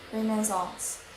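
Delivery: "renaissance" stressed on its first syllable, slowly; American first-syllable stress. Shown as a demonstration. Student shows American renaissance, stressed on the first syllable. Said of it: "American puts stress in the first syllable".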